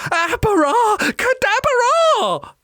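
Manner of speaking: high, slow witch's incantation; spell cast. A narrator's reading. Winnie casts spell.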